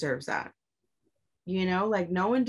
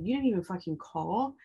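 raised, heated retelling of a confrontation; retold angry outburst; 3 semitones higher than usual. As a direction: replay the fight with rising heat, higher pitch. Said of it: "I just became so mad at him".

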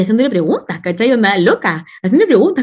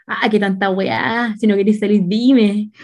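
mock annoyed; 2 semitones lower, slower than usual. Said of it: "se fue en la mala".

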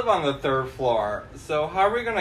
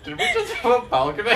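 imagined bewildered onlookers; 9 semitones higher, faster than usual. Acted. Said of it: "They're like".

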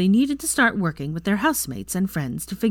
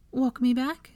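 breathless; 7 semitones higher, slower than usual. Acted. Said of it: "she asked breathlessly".

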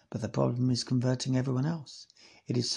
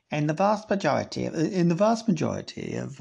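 Devon accent attempt; 2 semitones higher than usual. Shown as a demonstration. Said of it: "I can't believe I'm not doing a Devon accent".

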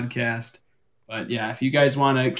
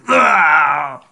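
Bib Fortuna cry; 4 dB louder than usual. Retold or imitated. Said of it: "Bib Fortuna who goes".

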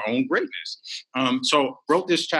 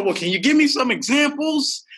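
high, pleading mock voice; pleading question; 13 semitones higher than usual. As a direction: play a stalling audience member, voice pitched up. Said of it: "Or, you know".

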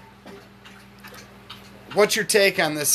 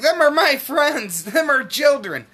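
mock tweaker woman; 9 semitones higher, 3 dB louder than usual. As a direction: parody her confused protest, stretched out and squeaky. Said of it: "She's like".

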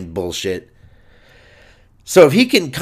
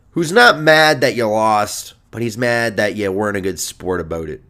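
lightly put-on Canadian hockey coach; a hint of Canadian accent, coach's scolding; 2 semitones lower than usual. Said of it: "it's a knockout Canadian accent".

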